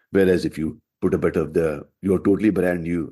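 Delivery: put-on dad's Asian accent with added Glaswegian; hybrid Glaswegian-Asian accent. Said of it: "Ouija him up a bit".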